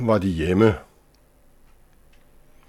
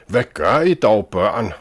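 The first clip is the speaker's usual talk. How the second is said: raised, higher call from the gentle lady; mild lady calling out; 3 semitones higher, 6 dB louder than usual. Acted. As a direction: call out to stop the children, gently shocked. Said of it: "råbte den milde frue". (høj, mild udråb)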